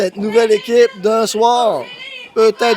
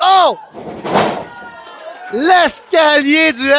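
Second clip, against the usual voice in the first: excited shout; 4 semitones higher, slower than usual. Real, not acted. Big move in the ring.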